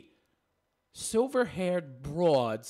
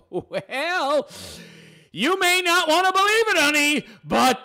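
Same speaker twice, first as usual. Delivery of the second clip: sarcastic put-down; 10 semitones higher, 4 dB louder than usual. Real, not acted. Mocking sarcastic retort.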